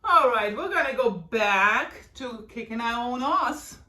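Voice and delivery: slow, playful mock British accent; slowly, a light hint of a British accent; a little British accent. Instructor jokes to her class in a mild British accent. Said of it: "I always like to say that with a little British accent".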